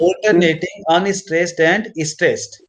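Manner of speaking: slow repeat for note-taking; slow dictation. Real, not acted. Teacher repeating the phrase for a student, slow dictation. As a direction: say it slowly so they can copy.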